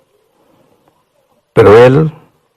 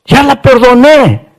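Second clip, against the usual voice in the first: tearful pleading; 10 semitones higher than usual. Acted. Prophet begging God not to ask again, tearful plea. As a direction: beg the Lord through tears. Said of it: "el profeta llorando le dice".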